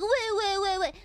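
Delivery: mocking crybaby wah-wah; fake-cry at the complainers. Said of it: "Always crying".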